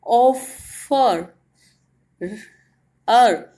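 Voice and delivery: ऑफर slowly in two pieces, then अर on its own; unstressed final R. Shown as a demonstration. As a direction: split ऑफर and let the अर ending come easily. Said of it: "थोड़ी ही धीमे से आ रही है". (ऑफर तोड़कर, आख़िरी अर पर ज़ोर दिए बिना)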